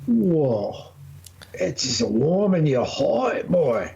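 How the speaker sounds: lecturing the drinker like a folksy elder; mock country elder. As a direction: drawl it like an old country grandpa. Mock old-timer wisdom.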